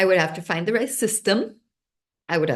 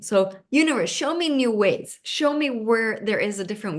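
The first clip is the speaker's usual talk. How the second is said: asking the universe; 5 semitones higher than usual. Shown as a demonstration. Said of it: "So I would start asking".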